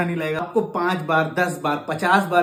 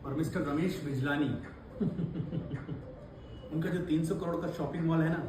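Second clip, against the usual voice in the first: gloating tycoon villain; 3 semitones lower, 9 dB quieter than usual. Acted. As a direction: savour every boast like a movie villain.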